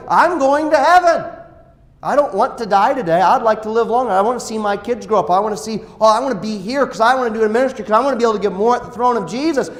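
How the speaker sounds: a believer at peace about death, eager to serve; joyful assurance. Retold or imitated. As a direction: sound certain of heaven. Confident believer's voice.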